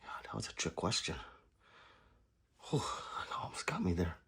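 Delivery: hushed aside, barely voiced; quick whispered relief. Real, not acted. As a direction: breathe it out like a secret relief. Joking after a trick question.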